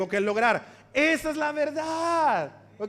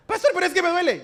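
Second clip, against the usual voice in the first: higher, louder complaining plea; whining congregant; 7 semitones higher, 5 dB louder, much faster than usual. Pretend. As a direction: whine to the pastor that it hurts. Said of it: "whiny congregant voiced".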